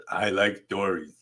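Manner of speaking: light, half-hearted cartoon boy voice; a playful sketch of a cartoon kid; Bart Simpson impression. Teacher tries a Bart Simpson voice on the class. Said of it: "That was my Simpson, um, imitation".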